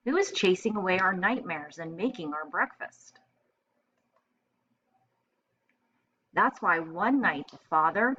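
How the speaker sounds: clear, expressive picture-book reading; storytelling read-aloud. A narrator's reading. Teacher reading a picture book to first graders, storytelling voice. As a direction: read it like story time for little kids.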